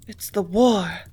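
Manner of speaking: breathy, distressed gasp of words; can barely get it out. A narrator's reading. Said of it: "gasped the girl".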